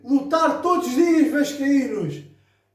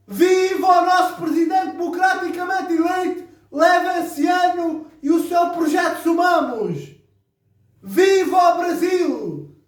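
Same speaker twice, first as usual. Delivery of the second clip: rally speech. Real, not acted. Closing rally cheers for the club.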